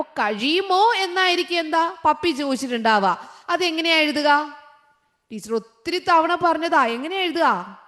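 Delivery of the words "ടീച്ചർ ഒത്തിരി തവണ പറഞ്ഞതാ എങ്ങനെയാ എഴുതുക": ordinary talk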